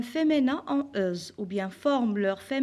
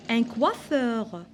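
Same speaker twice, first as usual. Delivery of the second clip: slow model word; much slower than usual. Shown as a demonstration. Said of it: "Un autre exemple".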